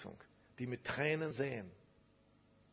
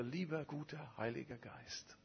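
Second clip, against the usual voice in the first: soft halting prayer; 7 dB quieter than usual. Retold or imitated. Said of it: "er sagte".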